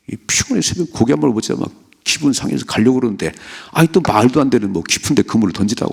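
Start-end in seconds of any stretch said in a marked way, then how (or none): 0.1-1.7 grumbling Peter. Acted. Peter's tired grumbling acted out.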